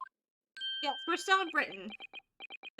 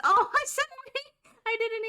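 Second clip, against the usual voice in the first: laughing; 11 semitones higher, 10 dB louder, faster than usual. Real, not acted. Delighted at voicing the line.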